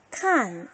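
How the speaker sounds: "칸" with a falling Mandarin fourth tone. Shown as a demonstration. Teacher models the syllable for students, "칸" in falling fourth tone. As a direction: drop the pitch firmly through "칸". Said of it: "사 성이니까".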